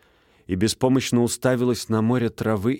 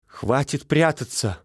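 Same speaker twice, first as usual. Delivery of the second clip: quiet pleading; 5 semitones higher, slower than usual. Acted. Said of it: "неожиданно тихо и умоляюще".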